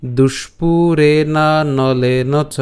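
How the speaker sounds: very slow, even Sanskrit chant; full shloka read out slowly for the class; slow verse recitation. Shown as a demonstration. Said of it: "শুরু করে পাঠ করি তাহলে কেমন হবে".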